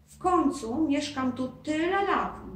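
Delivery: the ghost brags about his castle; lightly voiced proud ghost. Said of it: "dumnie zawołał Duszek".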